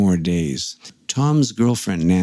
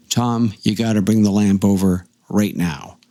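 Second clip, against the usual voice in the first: firm but even retold request; retold demand. Retold urgent demand, first take.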